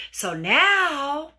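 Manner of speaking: normal talking voice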